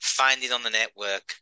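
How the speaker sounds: badly faked Boston American accent; mock American accent, slightly slowed; attempted American accent. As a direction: have a poor go at an American accent. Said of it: "I can't do the accent".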